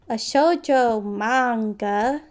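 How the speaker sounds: slow, puzzled rising question. Acted. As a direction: repeat the strange word back, baffled.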